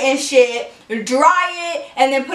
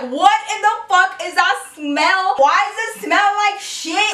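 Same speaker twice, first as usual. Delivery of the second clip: higher, half-shouted disbelief at a stink; mock-outraged kid asking what stinks; disgusted surprise; 4 semitones higher than usual. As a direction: ask it like the smell just hit you. Retelling her shocked reaction to smell.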